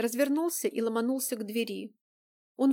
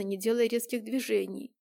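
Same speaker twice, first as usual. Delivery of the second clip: ordinary delivery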